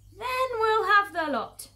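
high, loud, drawn-out farmer voice; big gloating farmer delivery; scheming farmer. Acted. Farmer resolves to take all foxes.

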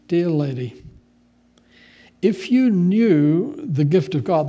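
Jesus answering the woman calmly; calm and gentle. Acted. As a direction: soothe her gently. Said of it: "answered very calmly".

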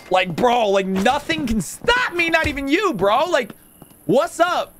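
high, drawn-out bro boast; hyped-up bragging. Pretend. Shopkeeper boasting to a bro, hyped-up swagger. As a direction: crow it like nobody can stop you. Boasting at someone about being unstoppable.

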